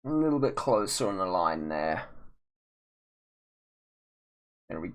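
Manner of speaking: out of breath while drawing; breathless, winded words; running out of air. Real, not acted. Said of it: "I'm running out of breath".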